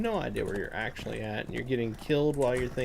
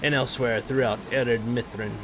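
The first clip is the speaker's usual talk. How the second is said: measured storybook read of the quest text; 2 semitones higher than usual. Acted. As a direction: read it like a dwarf's tale, unhurried. Reads quest text aloud.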